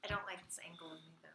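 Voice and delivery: quick whispered aside. Real, not acted. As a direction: whisper it fast. Whispered aside before the game.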